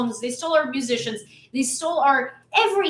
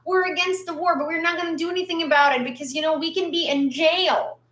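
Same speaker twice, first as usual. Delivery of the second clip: mock whiny complaint; 3 semitones higher than usual. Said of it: "they keep complaining and saying".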